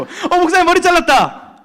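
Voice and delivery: high, slow blunt "잘랐다" falling; 두 번째 친구가 높고 느리게 무심히 던지는 말; second student. Retold or imitated. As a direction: flatly state the haircut as a kid. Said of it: "두 번째 친구".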